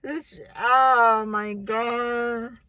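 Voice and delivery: slow, drawn-out embarrassed groan; mortified. Retold or imitated. As everyone sings to her, slow mortified. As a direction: sink into embarrassment. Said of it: "And I was like".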